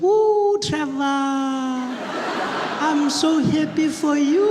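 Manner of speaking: very high, drawn-out granny squeal; hammed-up delighted old granny, loud and slow; excited grandmother. Grandmother congratulating grandson on his job, excited high crooning. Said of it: "she was really excited".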